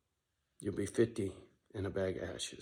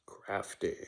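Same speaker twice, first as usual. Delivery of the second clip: whispered single word; 3 dB quieter than usual. Real, not acted. To viewers, whispering a sly hint. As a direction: breathe it out like a secret. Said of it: "Johnny is crafty".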